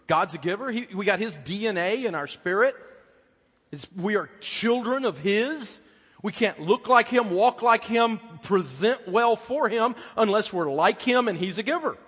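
loud, high preaching climax; full-force preaching. Acted. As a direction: drive it home from the pulpit.

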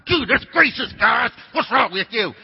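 loud, high, exasperated football coach; imitated coach yell. Old football coach to his players, exasperated yelling. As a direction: yell it like a coach pacing the sidelines.

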